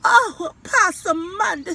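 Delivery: put-on a dismayed mother calling her child; exasperated mama. A narrator's reading. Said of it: "said Mama".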